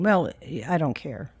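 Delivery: usual speaking voice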